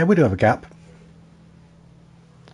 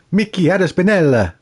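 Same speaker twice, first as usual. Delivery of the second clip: put-on Italian accent; 5 semitones higher than usual. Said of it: "They do it like this".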